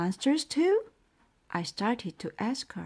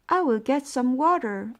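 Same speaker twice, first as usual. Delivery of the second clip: louder, higher call; yelling back; 5 semitones higher, 5 dB louder than usual. A narrator's reading. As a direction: shout the answer back. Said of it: "I yelled back".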